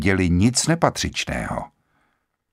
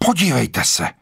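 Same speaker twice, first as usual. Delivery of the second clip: crying out; 7 semitones higher than usual. A narrator's reading. Vera alerts the others to the buzzing, exclaiming high. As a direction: call out on a raised pitch. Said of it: "vykřikla Vera".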